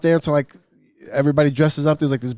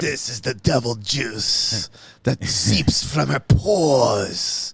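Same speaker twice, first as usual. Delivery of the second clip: mock fire-and-brimstone preacher; 3 semitones lower, much slower than usual. Mock medieval preacher warning.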